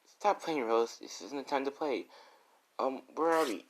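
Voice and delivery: high, uneasy scolding; girl telling Rose to stop playing, high and uneasy. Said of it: "And she's like".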